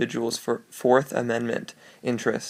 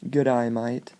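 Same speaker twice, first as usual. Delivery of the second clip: a light Australian good eye mate; Australian accent. Shown as a demonstration. Demonstrating the Australian pun in a light Australian accent. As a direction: say it like an Australian greeting. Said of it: "sounds like good day, mate, on an Australian".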